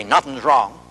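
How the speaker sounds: "Nothing's wrong" with a tense note that gives it away; telling tone. Shown as a demonstration. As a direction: deny it, but let the upset leak through. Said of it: "you catch a note in my tone of voice when I say".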